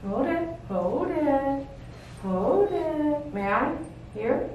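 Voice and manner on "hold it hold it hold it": slow, drawn-out coaxing. Real, not acted. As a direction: stretch it out to soothe a dog. Coaxing a dog to stay still.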